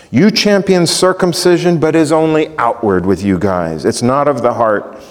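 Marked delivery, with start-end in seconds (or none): 0.1-3.8 fervent preaching. Acted. Fervent paraphrase of rebuke.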